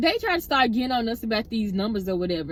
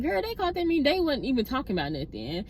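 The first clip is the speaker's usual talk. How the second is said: put-on higher, exasperated "Girl" to a friend; venting disbelief to a coworker; incredulous complaint; 5 semitones higher than usual. Tells her friend Crystal the meeting was pointless, exasperated and higher. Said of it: "I'm just like".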